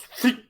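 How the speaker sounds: quick high whistled swish; swish sound effect. Retold or imitated. Recapping an arm being cut off, imitated blade swish. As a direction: imitate a blade slicing through. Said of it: "he just goes".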